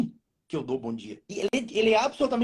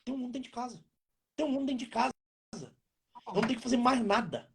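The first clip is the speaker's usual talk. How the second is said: relieved soft aside; 4 semitones higher, 6 dB quieter than usual. Retold or imitated. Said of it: "Ela olha e fala".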